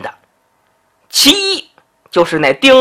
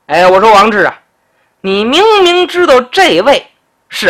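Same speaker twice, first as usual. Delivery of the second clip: lightly voiced magistrate scolding, a bit higher; stern official rebuke; 4 semitones higher than usual. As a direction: put the upstart in his place. Zhan Ping scolds the secretary. (官腔十足地训斥)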